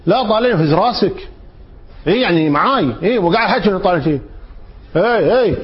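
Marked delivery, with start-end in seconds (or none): 0.1-1.3 raised, pressing look at me, nod your head; insisting demand. Retold or imitated. Speaker to a friend who looks away, pressing demand. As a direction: push him to look and nod, a bit higher. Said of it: "بعض الناس أصلًا ما يقبل إنك تطالعه".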